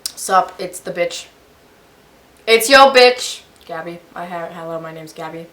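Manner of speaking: mumbled through a mouthful of food; mouth full. Real, not acted. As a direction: introduce yourself while chewing. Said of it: "I have my mouth full".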